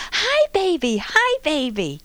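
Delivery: put-on high, loud little-girl voice calling out; excited toddler greeting. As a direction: call to the baby like an eager toddler. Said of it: "and she goes".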